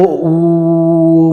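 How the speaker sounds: "ऊ" held and stressed between "ओ" and "म"; stress on the middle. Shown as a demonstration. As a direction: lean on the middle "ऊ" of the chant. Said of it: "बीच में ज़्यादा जोर दे रहे हैं". ("ऊ" पर बीच में ज़ोर)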